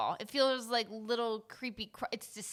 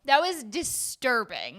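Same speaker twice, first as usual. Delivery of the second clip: mock disgust; 3 semitones higher, 6 dB louder, slower than usual. Real, not acted. Mock horror at the grunt.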